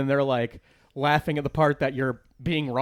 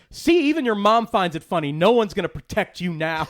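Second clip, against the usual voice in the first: gloating mock threat, pitched up at first; mock tearing into him; 4 semitones higher, 3 dB louder than usual. Comic taunting a kid whose mom is laughing, mock menacing. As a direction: taunt the kid as if he's cornered. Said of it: "like, ripping him apart".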